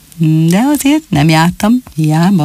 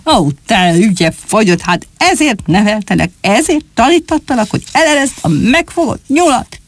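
higher, heated scolding rising as it goes; furious scolding; 4 semitones higher than usual. Acted. Fox father scolds his son for releasing the hare, furious. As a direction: tear into the son, fuming. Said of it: "füle szinte lángolt az indulattól".

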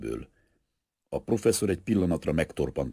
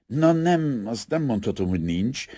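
high, loud protest; 9 semitones higher, 6 dB louder than usual. A narrator's reading. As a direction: push back firmly, voice jumping up high. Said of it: "tiltakozott Habicht professzor".

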